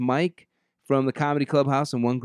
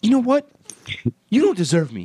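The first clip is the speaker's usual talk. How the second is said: haughty; 9 semitones higher than usual. Pretend. Mock breakup quarrel.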